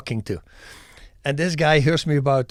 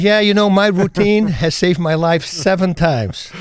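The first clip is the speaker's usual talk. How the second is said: retold boast; 3 semitones higher, 5 dB louder than usual. Retold braggart boasts of his routine.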